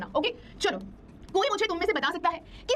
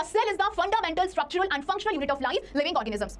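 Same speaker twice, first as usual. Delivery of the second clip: very slow, word by word definition; slow dictation of the cell definition; much slower than usual. Shown as a demonstration. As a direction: dictate it so students can write. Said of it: "note down किया".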